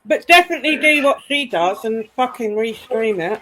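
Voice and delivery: talking while eating; words around a mouthful of food; mouth full. Real, not acted. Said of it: "I'm eating".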